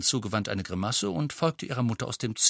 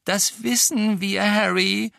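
serious; 10 semitones higher, 6 dB louder, slower than usual. Acted. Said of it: "sagte Ginny ernst".

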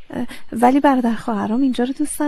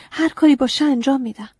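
"هر کاری" louder and higher, firmly pledged; eager promise; 4 semitones higher, 4 dB louder than usual. Acted. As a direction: burst out "هر کاری باشه" eagerly.

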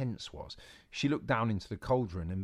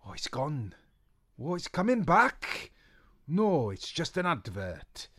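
put-on higher, louder old witch voice; 5 semitones higher, 5 dB louder than usual. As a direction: snap back with dignity.

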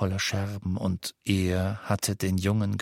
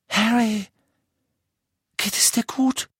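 put-on much higher, loud, urgent girl's voice; girl's voice calling; 13 semitones higher, 5 dB louder than usual. A narrator's reading. Hermione calls Harry out of his nightmare, urgent. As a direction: rouse him gently but urgently.

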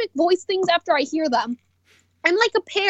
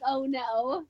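Karkat voice; 6 semitones lower, 9 dB quieter than usual. Retold or imitated. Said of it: "Karkat was like".

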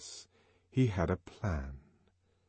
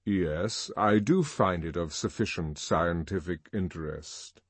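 deep voice; 3 semitones lower than usual. Acted. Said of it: "said the deep voice".

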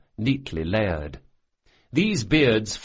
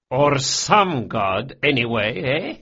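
slow, louder teasing boss; Barsavi joking; 4 semitones higher, 4 dB louder, slower than usual. A narrator's reading. Boss mocking the priest's god, slow and teasing. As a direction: lean into the jab.

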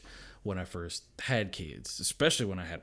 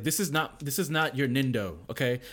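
higher, louder mock pep talk; Naruto pep talk; 6 semitones higher, 6 dB louder than usual. Dad to raging kid, mock inspirational speech. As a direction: lecture like an anime mentor. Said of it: "it's like".

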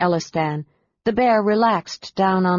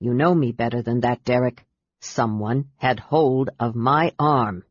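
calm with a threat beneath; dangerous calm; 5 semitones lower than usual. Acted. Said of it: "speaking with dangerous calm".

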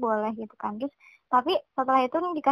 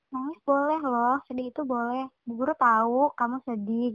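reassuring teacher. Retold or imitated. Teacher comforts crying child.

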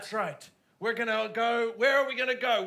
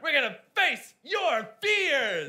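slow guru line; 3 semitones higher, 5 dB louder, slower than usual. Acted. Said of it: "That's more of a bad sound".

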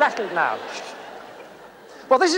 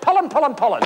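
mocking repetition; faster than usual. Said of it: "stupidest thing I've ever heard".

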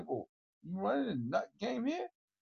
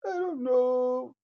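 emphatic; 7 semitones higher, 6 dB louder, slower than usual. Acted. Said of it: "repeated three ways".

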